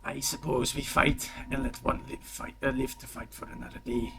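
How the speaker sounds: put-on light, hushed character accent; Puss in Boots. Game master voicing Cazador proposing a fight, Puss in Boots accent. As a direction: slip lightly into the cartoon cat's accent. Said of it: "Puss in Boots accent".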